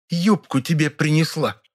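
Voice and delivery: slow, sarcastic, dripping with venom; venomous. A narrator's reading. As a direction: let the poison ooze out slowly. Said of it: "язвительно изрекла Раневская". (язвительно, с ядом в голосе)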